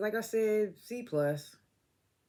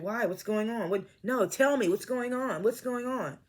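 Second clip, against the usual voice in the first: paranoid questioning; 5 semitones higher than usual. Retold or imitated. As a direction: press him like a paranoid man. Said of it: "Dale, paranoid ass".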